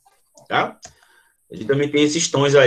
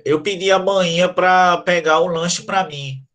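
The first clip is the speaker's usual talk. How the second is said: a stuffy, blocked-nose voice like a bad cold; nose held shut; 2 semitones higher than usual. Shown as a demonstration. Teacher shows the class how a blocked nose sounds, pinched nose. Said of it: "ele sai nasalizado, porque você tampou a saída de ar".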